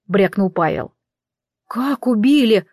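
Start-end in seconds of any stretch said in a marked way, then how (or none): 1.7-2.7 gasped. Acted. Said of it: "ахнула я".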